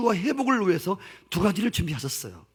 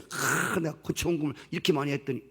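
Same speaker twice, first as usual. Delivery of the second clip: smug boast; 5 semitones lower, 4 dB quieter than usual. Retold or imitated. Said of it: "그렇게 하지 마세요".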